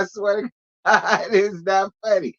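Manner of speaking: swearing it's not funny between laughs; giggling. Real, not acted. Swearing to viewers, giggling. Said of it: "That's not what I'm laughing at".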